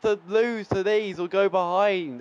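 high-pitched, wailing protest; exasperated complaint. Real, not acted. Gamer losing to a bogey team, exasperated. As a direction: cry out at the unfairness of it. Laments going behind to rivals.

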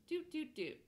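high, quick "doot" sound effects; playful doot noises. Shown as a demonstration. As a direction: tick off each step with a high little doot. Tracing chart moves with noises.

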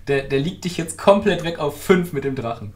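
excited. Real, not acted. Excited after laughing.

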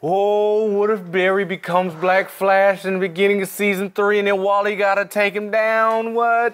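high, rushed with sudden excitement; excited. Real, not acted. Cohost pitches a wild Flash theory to friends, excited and high. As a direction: blurt out the theory like a revelation.

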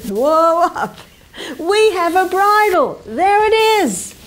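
loud, high whoa to a horse; loud horse handler calling whoa. Acted. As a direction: rein in the horse with a shout. Reining in a wild horse.

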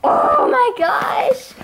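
breathless whispered gasp of delight; awed hushed oh my gosh; excited whisper. Real, not acted. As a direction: whisper it in awe.

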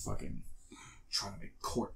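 fast whispered aside; whispering. Real, not acted. Aside during court scene.

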